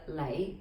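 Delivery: "Lei" starting low and rising. Shown as a demonstration. Teacher breaks down Bruce Lee's name, low rising "Lei". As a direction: say "Lei" alone, lifting from low. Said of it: "low rising".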